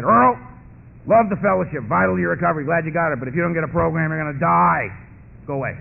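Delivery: lightly voiced, emphatic old timer; brusque, mock-stern advice; blunt old timer. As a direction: rattle off the verdict, then dismiss him. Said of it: "walked up to an old timer and said".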